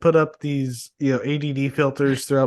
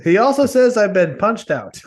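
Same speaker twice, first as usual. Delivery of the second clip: Ralphie voice; 6 semitones higher, 5 dB louder than usual. Retold or imitated. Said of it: "he's like Ralphie from The Simpsons".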